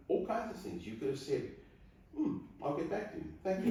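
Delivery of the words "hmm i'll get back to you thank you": mock noncommittal reply. Mock cool reply to proposal.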